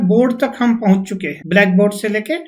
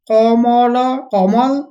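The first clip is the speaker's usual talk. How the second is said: calling out; 2 semitones higher, much slower than usual. Shown as a demonstration. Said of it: "थोड़ा इधर आना".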